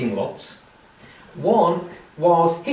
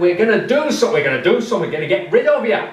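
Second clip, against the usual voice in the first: put-on drunken threat; 6 semitones higher, 5 dB louder, much faster than usual. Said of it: "He said".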